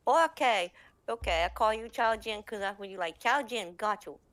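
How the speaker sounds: Ping Ting conceding. Retold or imitated. Ping Ting agreeing to name.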